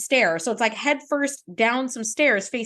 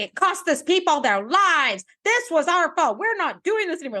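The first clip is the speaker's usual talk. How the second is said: imitated righteous outrage, pitched up; self-righteous rant; 4 semitones higher than usual. Riker confronting his captain over lost lives, self-righteous rant. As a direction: rant with indignant conviction, building into a rush. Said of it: "does a really good self-righteous rant".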